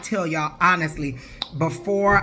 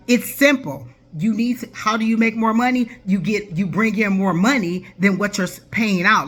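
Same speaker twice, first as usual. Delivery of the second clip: impatient, raised voice; exasperated; 3 semitones higher, 3 dB louder than usual. Real, not acted. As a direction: spell it out for them, fed up. Exasperated lecture to viewers.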